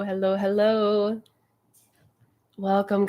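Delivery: ordinary delivery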